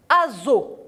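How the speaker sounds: "azo" as a-zo, voiced z. Shown as a demonstration. Teacher gives the sound between A and O, "azo" with voiced z. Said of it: "le son Z".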